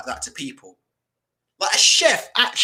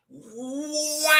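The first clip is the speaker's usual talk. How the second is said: surprised wow; 9 semitones higher, 3 dB quieter than usual. Real, not acted. Shocked by next plate.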